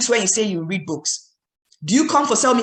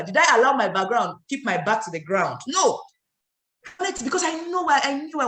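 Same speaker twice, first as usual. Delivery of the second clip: rousing motivational speaker voice; booming motivational speech; 2 semitones higher than usual. Shown as a demonstration. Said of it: "let me talk like a motivational speaker".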